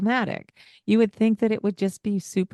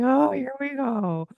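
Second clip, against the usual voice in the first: weary sigh; 7 semitones higher than usual. Retold or imitated. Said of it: "And it's like".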